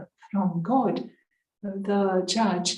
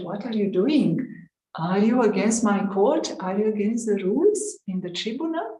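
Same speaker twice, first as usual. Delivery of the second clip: a retold judge demanding answers, a bit louder; mildly indignant challenge from the bench; half-acted judge scolding the young woman; stern judge; 3 semitones higher, 4 dB louder, faster than usual. Judge challenging Radhe in court.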